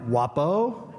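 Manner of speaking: "Wapo" rising at the end like a caution; warning. Retold or imitated. Man on the bench cautions unseen Wapo, warning. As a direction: imitate a stranger's warning call. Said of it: "he says it like a warning".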